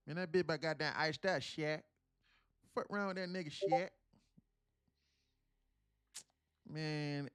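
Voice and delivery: loud, high Atlanta street slang voice; Atlanta lingo impression. Streamer mocking how people in Atlanta talk, loud and high Atlanta lingo. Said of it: "The Atlanta lingo is like".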